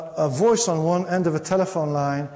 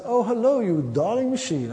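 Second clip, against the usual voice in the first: mock-gushing hello that swoops up high; gushing caller; 4 semitones higher than usual. Caller greeting Jim's answering machine, gushing. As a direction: play a sugary caller, lightly hammed-up.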